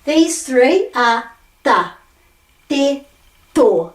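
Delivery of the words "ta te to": ta, te, to with a flattened T on the palate; syllables sounded one by one. Shown as a demonstration. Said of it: "I'm flattening my T".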